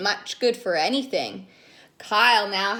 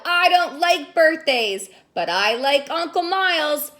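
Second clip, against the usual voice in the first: grumpy crocodile; 4 semitones higher, 4 dB louder than usual. Acted. Grumpy Kyle speaks.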